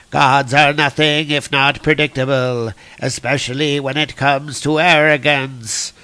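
lightly voiced taunting villain; a touch of theatrical menace; God Butcher. Villain mocking Thor's arrogance, mildly hammed menace.

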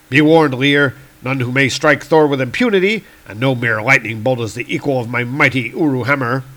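lightly voiced heroic warning; lofty thunder god. Thor warning his attacker off, lofty and firm. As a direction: declaim a grand comic-book warning.

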